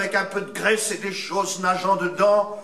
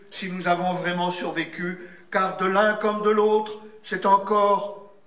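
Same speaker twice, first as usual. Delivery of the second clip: literary reading; 3 semitones lower than usual. Acted. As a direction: read it like somber prose. Reads a literary passage.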